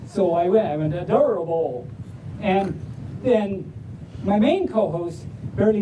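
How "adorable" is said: put-on lightly drawled Southern accent; a hint of Southern drawl on the word. Host showing how they read it on the show, Southern drawl. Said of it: "Southern accent, Southern drawl".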